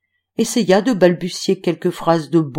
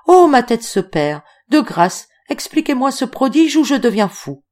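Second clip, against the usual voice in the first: mock bewilderment; 5 semitones higher, 4 dB louder than usual. Octave bewildered.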